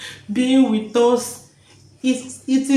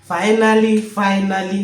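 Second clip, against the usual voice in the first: joyful exclaiming; 4 dB louder than usual. Retold or imitated. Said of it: "Why am I now talking like this?".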